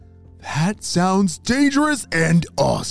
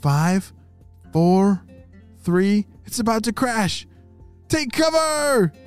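rising, higher urgent call; urgent countdown; 7 semitones higher, slower than usual. Acted. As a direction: count down then warn. Countdown to crash.

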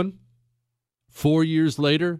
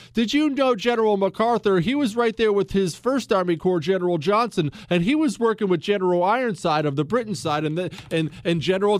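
higher, rushed name-dropping storyteller; mocking a rambling storyteller; 6 semitones higher, faster than usual. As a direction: lightly mimic a confusing storyteller listing generals. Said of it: "when somebody tells me a story".

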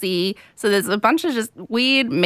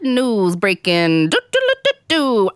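news jingle. Pretend. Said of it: "let's do breaking news".

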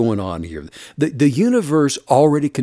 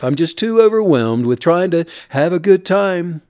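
higher, pleading complainer; whiny excuse voice; 5 semitones higher, 3 dB louder than usual. Retold or imitated. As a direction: whine out excuses to Steve. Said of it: "voicing a whiny excuse-maker".

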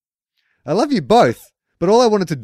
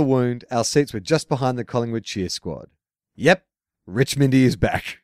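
letter read aloud; 2 semitones lower than usual. Acted. Host reads a fan's email to the audience, in a reading voice.

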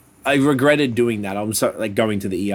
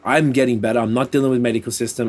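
defiant outburst. Retold or imitated. Telling friends how he gave up on doctors, a retold defiant outburst. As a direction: blurt it out like you've snapped and stopped caring.

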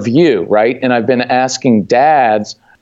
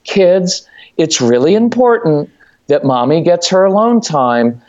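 a light, higher, pleading sweet-mom voice; 4 semitones higher than usual. Retold or imitated. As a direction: coax the kids sweetly, lightly acted. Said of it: "here's the sweet mom voice".

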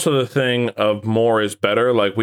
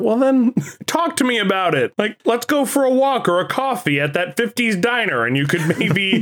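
caring mentor; 9 semitones higher than usual. Pretend. Mocks a caring Jedi mentor.

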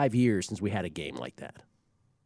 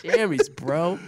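much higher, squealed jokingly; squeaky mock voice; 7 semitones higher, 4 dB louder, much slower than usual. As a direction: squeak it out as a joke. Mocking repeat of the phrase.

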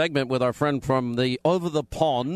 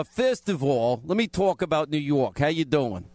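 New York accent. Shown as a demonstration. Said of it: "let me hear you do your New York accent".

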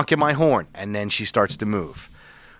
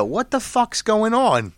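higher, slower mock cop bark; cop yelling; 9 semitones higher, slower than usual. Cop yelling into his car window, a mock shout. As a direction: yell it in through the car window. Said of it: "yells in my window".

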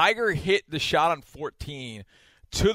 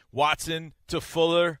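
slow British play-by-play call; measured British-accented commentary; 2 semitones higher, slower than usual. Acted. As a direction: call the pass like a British announcer. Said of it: "So you wouldn't say".

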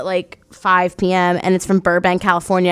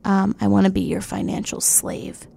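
creepy caller; 5 dB quieter than usual. Retold or imitated. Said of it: "His voice is so disgusting".

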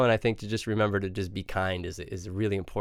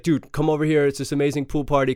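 a bit higher and louder, hyped up; excited friend; 4 semitones higher, 5 dB louder than usual. Retold or imitated. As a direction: call him over like the party's amazing. Friend texting party invite.

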